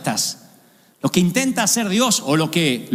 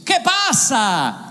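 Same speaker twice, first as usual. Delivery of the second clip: drawn out, pleading why; slow plaintive question; 4 semitones higher, much slower than usual. Acted. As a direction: Job asking God what is happening, slowly and plaintively. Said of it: "le pregunta a quien debió preguntarle".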